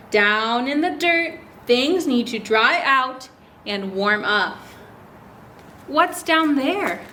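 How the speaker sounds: slow storybook dialogue; reading to children. Acted. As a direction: read the lines slowly for little ones. Reads dialogue aloud.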